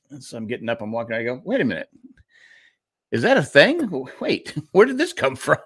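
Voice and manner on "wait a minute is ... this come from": higher, rising disbelief broken by a laugh; startled realisation. Retold or imitated. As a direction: catch yourself mid-step, baffled. Retells his sudden realisation.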